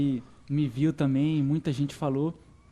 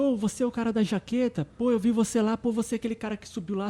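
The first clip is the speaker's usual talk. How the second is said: high, excited recognition; excited strangers; 6 semitones higher than usual. Retold or imitated. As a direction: sound thrilled to spot him.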